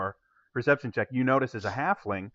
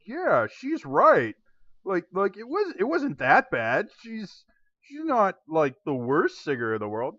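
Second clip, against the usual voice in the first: higher, mild crowd-member voice; a bystander half-heartedly taking her side; 6 semitones higher than usual. Acted. Crowd member sides with the halfling, lightly voiced. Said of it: "crowd are actually sitting there going".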